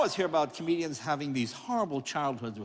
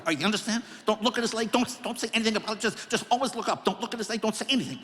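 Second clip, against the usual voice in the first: higher, fast, anxious muttering; nervous mom; 4 semitones higher, faster than usual. Retold or imitated. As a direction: rush it like a panicked housewife.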